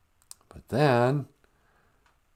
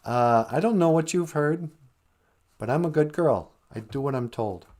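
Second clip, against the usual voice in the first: put-on sassy good girl; 5 semitones higher than usual. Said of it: "put her hand on her hip".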